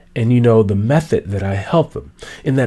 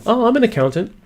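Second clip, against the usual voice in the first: bland, higher one-liner; lame introduction; 10 semitones higher, faster than usual. Shown as a demonstration. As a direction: say your job and stop dead. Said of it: "here's a lame introduction".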